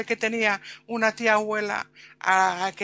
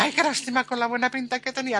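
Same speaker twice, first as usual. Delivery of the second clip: higher, fast disappointed sigh; disappointed fiancée; 6 semitones higher, faster than usual. Retold or imitated. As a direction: lament the lost treat quickly. (novia decepcionada, rápida y aguda)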